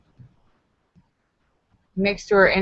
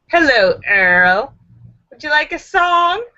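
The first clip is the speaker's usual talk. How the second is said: creepy impression of a singer; 4 semitones higher, 4 dB louder than usual. Acted. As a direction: menace the listener sweetly. Voicing a singer in nightmare.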